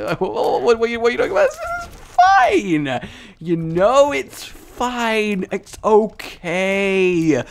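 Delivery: high strained falsetto, slow and drawn out; mock denial. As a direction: squeak that everything is fine while it clearly isn't. Hysterical high "this is fine.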